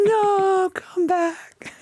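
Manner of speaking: very high laughing protest; laughing plea. Real, not acted. Teacher begging the student to come back, laughing high. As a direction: beg through laughter.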